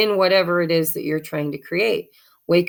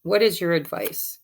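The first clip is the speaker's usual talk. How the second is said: normal talking voice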